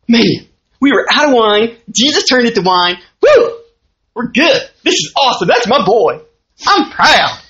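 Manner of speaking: put-on elated mom in a Southern accent. Preacher voicing Mary proud of her son at the wedding, excited Southern accent. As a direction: whoop and crow with a Southern twang. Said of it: "maybe she didn't have a Southern accent".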